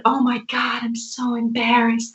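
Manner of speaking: attempted Southern US accent, slow drawn-out ending. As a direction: imitate an embarrassed Southern friend's drawl. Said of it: "That's my worst Southern accent".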